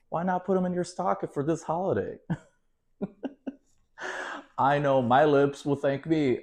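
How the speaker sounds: bright overdone ad-read voice; fake infomercial. Hostess hamming up a fake condom ad, over the top. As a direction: sell it like a cheesy infomercial host. Performs fake commercial skit.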